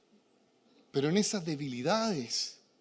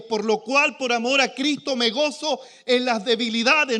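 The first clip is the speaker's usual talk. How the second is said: scripture reading; 4 semitones higher, 6 dB louder than usual. Real, not acted. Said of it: "dice el apóstol Pablo".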